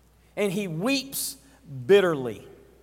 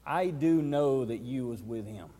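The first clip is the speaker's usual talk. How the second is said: lower, sure of himself, stress on do; confident accuser; 6 semitones lower, 4 dB quieter than usual. Acted. Bystander confidently affirming to Peter, low and certain. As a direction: lean in and insist he knows. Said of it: "it looked like this".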